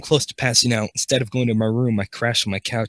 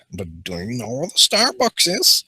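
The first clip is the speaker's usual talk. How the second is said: nervous, freezing stranger. Acted. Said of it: "I realized he stuttered because he is freezing".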